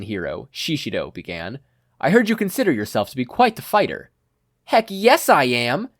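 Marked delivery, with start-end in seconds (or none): 2.0-4.1 lion hero. Acted. Lion hero challenges Katsuki. 4.6-5.9 higher, louder, slow and cocky; proud proclamation. Acted. Katsuki boasts to his trainer, proud and loud. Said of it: "Katsuki proudly proclaimed".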